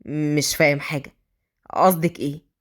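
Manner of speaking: low male voice feigning ignorance; Adham playing dumb. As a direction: act innocent, pitched well down. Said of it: "أدهم بتصنع الغباء".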